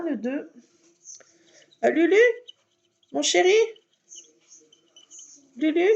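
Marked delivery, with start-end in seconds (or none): 1.8-5.9 high, loud call across the house. Real, not acted. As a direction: call the cat from the next room. Calling the cat from afar.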